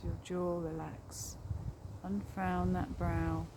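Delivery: calm meditation guide with long pauses; guided meditation. Real, not acted. Guiding listeners along a forest path, guided meditation voice. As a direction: lead them gently inward, leaving space after each phrase.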